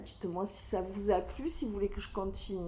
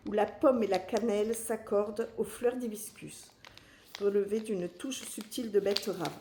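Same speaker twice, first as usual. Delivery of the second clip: brisk advertising read of a tea description; product blurb read. Acted. Vlogger reading the box text aloud, ad-style read.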